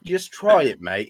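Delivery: coaxing in put-on British; playful British nudge; mock British accent. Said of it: "try a British accent".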